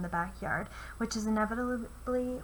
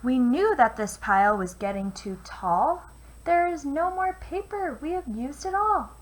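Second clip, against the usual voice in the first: crying scribbles; 4 semitones higher, 6 dB louder than usual. Acted. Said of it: "the scribbles all cried".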